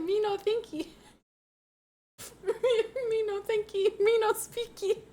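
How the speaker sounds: high, giggling Yoda imitation; a hammed-up Yoda, laughing through it; silly Yoda voice cracking into laughter; mock Yoda. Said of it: "Does Yoda really say".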